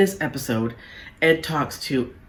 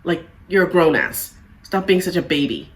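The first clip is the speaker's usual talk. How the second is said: blunt dismissive. Retold or imitated. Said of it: "rather than saying".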